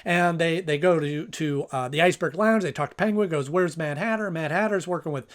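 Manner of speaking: hurried episode rundown; talking fast. Real, not acted. Host racing through a sixty-second episode rundown, talking fast. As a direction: rattle through the plot against a clock. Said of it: "I'm talking as fast as I can".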